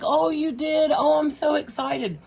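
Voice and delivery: high, loud gushing delight; mock excited. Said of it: "I'm like".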